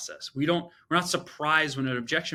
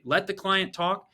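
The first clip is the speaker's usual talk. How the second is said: mocking quote; 5 semitones higher, slower than usual. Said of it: "I don't agree with that".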